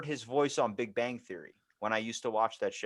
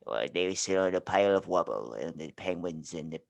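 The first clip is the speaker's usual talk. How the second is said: imitating British narrator; 6 semitones lower than usual. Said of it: "what do you call it".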